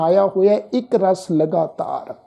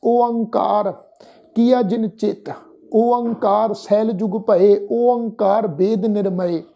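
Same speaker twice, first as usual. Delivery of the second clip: slow, measured recital in short phrases; scripture recitation; slower than usual. Retold or imitated. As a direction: recite the verse with drawn-out words. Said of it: "ਉੱਥੇ ਮਹਾਰਾਜ ਜੀ ਕਹਿੰਦੇ ਆ ਵੀ". (ਬਾਣੀ ਦਾ ਠਹਿਰਾਅ ਵਾਲਾ ਪਾਠ)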